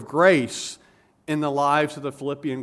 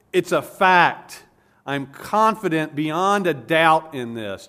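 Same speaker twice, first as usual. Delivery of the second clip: amplified declaration, growing louder with each claim of confidence; very emphatic; 3 semitones higher, 5 dB louder than usual. Acted. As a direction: drive it home with weighty, punched key words. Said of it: "is this, very emphatically".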